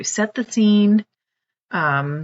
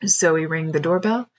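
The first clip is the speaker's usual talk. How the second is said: story narration. A narrator's reading. Author reads her picture book.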